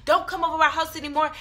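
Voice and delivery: high-pitched mock angry yell; retold screaming. Sisters banning the friend from their house, imitated screaming. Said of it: "we was screaming at him".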